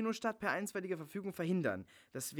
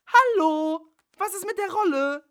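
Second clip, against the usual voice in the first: louder and higher, yelling for attention; angry shout; 15 dB louder than usual. Acted. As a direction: shout to snap him out of it. Bella demands the lead role.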